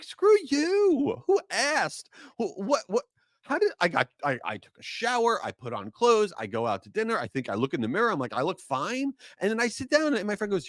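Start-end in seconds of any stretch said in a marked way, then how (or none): 0.0-9.1 high, exasperated outburst, words tumbling; mock indignant rant. To a friend who says he looks tired, a high indignant rant. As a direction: fire back at the friend, offended and fed up.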